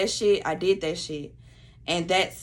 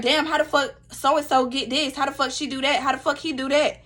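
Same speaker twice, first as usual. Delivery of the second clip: higher-pitched, indignant self-quote; envious griping; 4 semitones higher than usual. Retold or imitated. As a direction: act out jealous, disbelieving complaining. Acts out her envious complaints.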